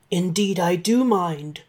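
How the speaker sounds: a lightly voiced dragon refusing; firm, lightly growled dragon reply. Dragon refusing Santa a peek upstairs, lightly growled. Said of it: "said the dragon".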